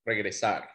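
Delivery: Regresar with the last syllable stressed; stress on the end. Shown as a demonstration. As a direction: lean on the final syllable of Regresar. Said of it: "at the end".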